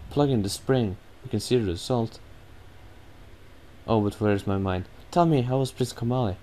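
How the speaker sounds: a lightly voiced girl recalling calmer days; voiced girl sharing her worry; bird girl telling. Medli tells of the spring.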